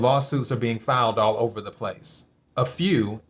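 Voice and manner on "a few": mild stress on "A few", set apart; emphasis on A few. Real, not acted. Stressing how few the campaign filed, "A few" emphasized. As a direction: give "A few" its own deliberate beat. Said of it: "I want to emphasize the word a few".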